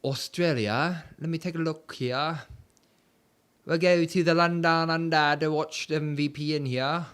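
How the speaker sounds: put-on playful, loose Australian accent; mock Australian accent. Streamer switching his region to Australia, mock Australian accent. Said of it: "doing an Australian accent".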